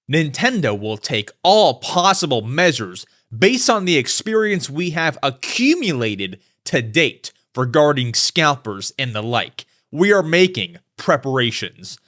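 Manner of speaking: lightly voiced official, measured reading; corporate statement. Company president's quote on scalpers, read in mildly mock-corporate style. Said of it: "very corporate, you know, quote here".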